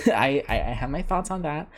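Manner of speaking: thump of hitting the mic; knocking the microphone mid-sentence; mic bump. Real, not acted. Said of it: "I keep hitting my mic".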